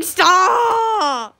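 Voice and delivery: high, drawn-out mock cry; imitating her. Retelling a friend's protest, high mock wail. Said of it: "And she was like".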